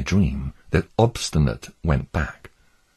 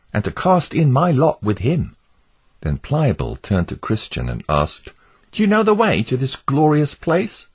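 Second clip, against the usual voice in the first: higher, gentle hopeful voice; Pliable the wavering neighbour; 7 semitones higher than usual. Acted. Pliable defending Christian to Obstinate, hopeful. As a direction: defend the pilgrim warmly.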